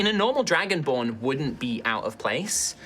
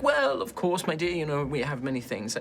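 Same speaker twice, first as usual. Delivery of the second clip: courteous gentleman, pitched up at first; Varys; 3 semitones higher than usual. Acted. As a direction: play a genial, indulgent host. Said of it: "Varys is like".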